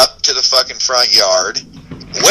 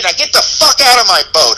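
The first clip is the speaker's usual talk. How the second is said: angry; 5 semitones higher than usual. Retold or imitated. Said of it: "I'm pissed".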